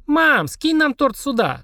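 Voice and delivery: put-on high drawn-out childish shriek. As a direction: squeal it slowly up high. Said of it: "заверещала Полина". (визгливо, протяжно)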